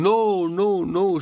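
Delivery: high, loud alarmed denial. Acted. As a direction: stop it before it's too late. Aunt alarmed the bag was shared.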